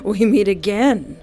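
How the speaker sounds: mocking laugh, slow menace; smug villain greeting; gloating villain. Villain gloats over player.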